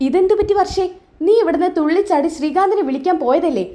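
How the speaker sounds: lightly acted bewilderment; puzzled questioning. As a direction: ask as if taken aback. Acted puzzled question to upset Varsha.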